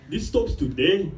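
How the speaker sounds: put-on declaration in a thickened Ethiopian accent; stronger Ethiopian accent. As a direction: lay the Ethiopian accent on, lightly mock-solemn. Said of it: "I had a stronger accent back then".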